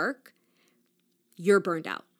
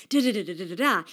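laughing da da; much faster than usual. Retold or imitated. Mocking rambling, laughing.

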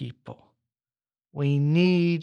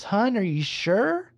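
slow, higher, gently doubtful dealer; 5 semitones higher than usual. Retold or imitated. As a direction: ask it like a worried croupier. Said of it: "even the dealer says".

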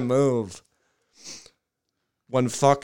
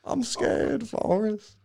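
lightly voiced Bubba, scared; Bubba impression; 11 semitones higher, slower than usual. Quoting Bubba's death line.

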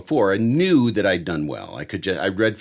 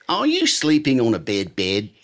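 New Zealand radio ad. Retold or imitated. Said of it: "an ad on the radio for a mattress store".

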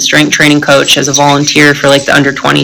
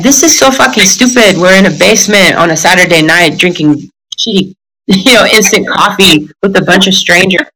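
sassy Latina; 2 semitones higher than usual. Retold or imitated. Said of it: "she's this sassy Latina".

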